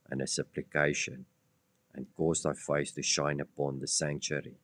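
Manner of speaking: hushed, solemn Bible reading; scripture reading. Acted. Reads Daniel's prayer aloud.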